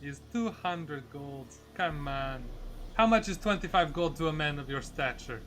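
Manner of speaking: put-on light Russian haggler accent. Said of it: "my happy Russian accent".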